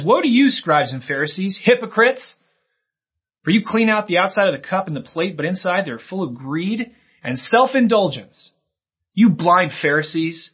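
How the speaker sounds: Jesus rebuking the Pharisees, loud and forceful; fired up. Acted. Jesus denouncing scribes and Pharisees, fired-up loud rebuke. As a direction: thunder the woes at the hypocrites. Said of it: "he's fired up".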